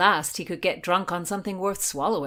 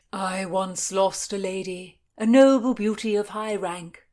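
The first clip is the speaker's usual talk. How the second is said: gushing; 3 semitones higher, 7 dB louder than usual. A narrator's reading. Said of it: "Sir Henry gushed".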